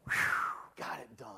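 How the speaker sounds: whispered sigh of relief, just to yourself; relieved whisper. Retold or imitated. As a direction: breathe it out under your breath, job done. Relieved sigh after rushing out.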